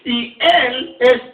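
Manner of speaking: "él" drawn out and weighted, slowly; stress on él. Shown as a demonstration. Pastor teaching where the accent falls, weighting "él". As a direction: lean hard on "él" as the one who is Christ. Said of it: "es un acento en la E".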